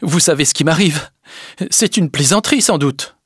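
airy, put-on nonchalance; feigned casual air. A narrator's reading. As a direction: toss it off as if unbothered. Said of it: "d'un air dégagé".

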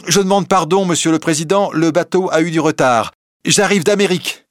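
breathless arrival, cheerful apology; young man just off the boat, apologizing. Acted. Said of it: "Et il dit".

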